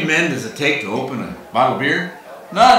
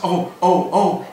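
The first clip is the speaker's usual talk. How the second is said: high, loud, acted swoon; hammed-up gasps of admiration; gasping, sighing woman; 8 semitones higher, 5 dB louder, slower than usual. Woman watching Texan flex his muscles, acted swooning gasps. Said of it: "she gasps. She sighs".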